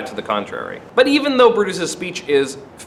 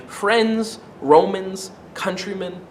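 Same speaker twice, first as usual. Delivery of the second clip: soft, measured Antony, coaxing the crowd; Antony soothes a hostile crowd, soft and gentle; gentle oratory; 7 dB quieter than usual. Acted. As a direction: start very gently, win them over. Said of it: "he starts out very gently".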